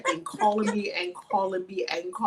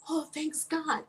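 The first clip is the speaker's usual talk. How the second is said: softer, higher mimicked Omani accent; 4 semitones higher, 5 dB quieter, slower than usual. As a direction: quote him in an Omani accent. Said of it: "He's saying all this in his accent from Oman".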